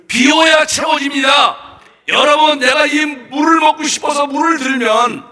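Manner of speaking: 높고 크게 외치는 설교조; 회중에게 강하게 선포하듯 외쳐. Real, not acted. 강하게 외치며 설교. (목소리를 높여 힘껏 선포하는 설교)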